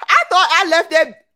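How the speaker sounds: high loud whiny complaint; high mock lament. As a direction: whine it up high.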